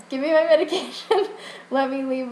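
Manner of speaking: high, loud mock-crying demand breaking into laughter; hammed-up weepy begging, half laughing; retold tearful plea. Patient pleading with pharmacist to let her go, mock tearful. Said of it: "So I just started crying".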